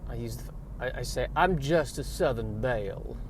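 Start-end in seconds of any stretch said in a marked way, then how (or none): 1.4-3.2 slow Southern belle drawl; languid, melodramatic Southern accent with long pauses; Blanche Dubois. Pretend. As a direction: play a badly faked Southern belle. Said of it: "I was aiming for Blanche Dubois".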